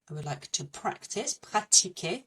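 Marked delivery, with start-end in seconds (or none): 1.3-2.2 "pratiquer" with no k sound before the t; no extra C. Shown as a demonstration. Teacher warning learners off the English C, French pratiquer. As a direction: say "pratiquer" the French way, without practice's C. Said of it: "there's no extra C in it".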